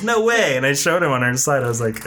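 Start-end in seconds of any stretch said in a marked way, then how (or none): 0.0-0.6 mock disbelief. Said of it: "he goes".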